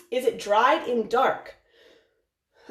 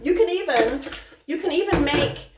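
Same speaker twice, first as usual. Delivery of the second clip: eager, slightly higher delivery; higher-pitched, keen build-up; getting excited; 5 semitones higher than usual. Real, not acted. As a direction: bubble with real excitement about your topic. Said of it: "I'm getting excited".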